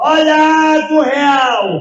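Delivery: booming, slow, stretched-out street vendor cry. Retelling selling water in the street: retelling own street shout. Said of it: "Era eu de um lado gritando".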